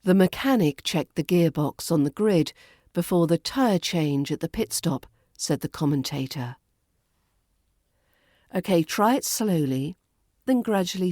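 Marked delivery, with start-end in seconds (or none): 0.0-6.6 crisp British read of the practice line. Shown as a demonstration. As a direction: read the line clearly and evenly. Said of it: "Let's do a practice line".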